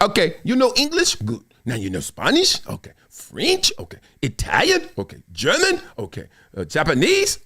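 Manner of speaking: lightly voiced perky language teacher; quizzing brightly, language after language; Rosetta Stone lady. Rosetta Stone teacher quizzing a quarterback, lightly mock voiced. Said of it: "She'd be like".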